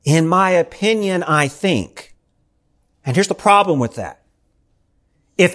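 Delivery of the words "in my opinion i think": timid hedge. Pretend. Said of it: "what our world wants us to say".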